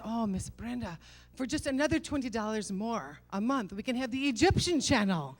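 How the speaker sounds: coaxing mock Middle Eastern husband; Middle Eastern accent. Husband sells wife an extra channel, Middle Eastern accent. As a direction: imitate his Middle Eastern accent, rising to the selling point. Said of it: "I'm doing a Middle Eastern accent".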